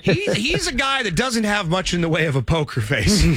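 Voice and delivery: amused line with a laugh breaking in; laughing aside about the owner. Real, not acted. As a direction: chuckle while you tell it. Joking about Jerry's face, laughing.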